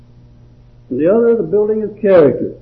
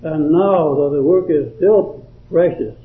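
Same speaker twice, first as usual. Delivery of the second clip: measured, earnest verse recitation; devotional poem reading. Acted. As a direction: read the poem aloud, pausing after each phrase.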